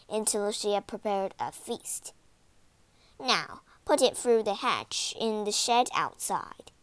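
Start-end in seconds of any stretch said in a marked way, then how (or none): 3.2-6.7 ordering. Acted. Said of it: "the woman ordered".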